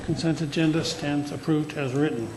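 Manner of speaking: talking around gauze packing; dental packing in mouth. Real, not acted. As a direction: speak with packing after tooth pulled. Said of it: "in case you're wondering why I'm talking like this".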